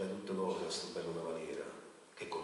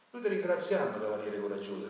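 a booming royal thanks; king's loud proclamation; 2 semitones higher, 10 dB louder than usual. A narrator's reading. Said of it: "ricette il re".

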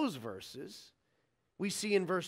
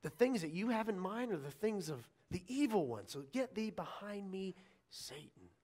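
stern rebuke; 6 dB quieter than usual. Acted. Jesus rebukes Peter, stern and restrained. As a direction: rebuke firmly without raising the voice, pausing before the final name. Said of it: "he says so sternly".

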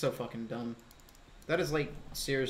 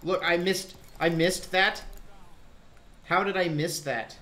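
frustrated; 4 semitones higher, 5 dB louder than usual. Real, not acted. Missing a shot in game.

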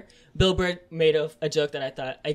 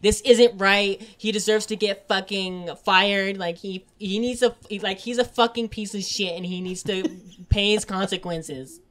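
louder, higher whiny outrage at a joke; mock outraged complainer; 3 semitones higher, 5 dB louder than usual. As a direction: ham up an offended person demanding someone get fired. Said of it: "white people who will come in there and be like".

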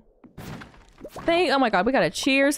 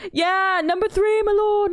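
mock eager courtier; 11 semitones higher, 4 dB louder than usual. Quoting Shrek Farquaad mirror scene.

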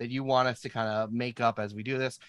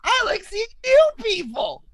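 very high squeaky character voice; Garterton voice; 7 dB louder than usual. Acted. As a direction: squeak it out like a tiny creature. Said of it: "That's the voice of Garterton".

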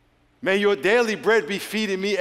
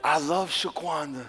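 slow, softer, through a laugh; grudging laugh; 4 dB quieter, slower than usual. Pretend. Forced to pray for the rival, softly laughing. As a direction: say it like you barely mean it.

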